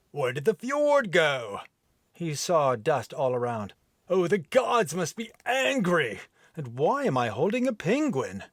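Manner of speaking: mild bewildered Viking. Acted. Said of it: "rough, deep brogue accent".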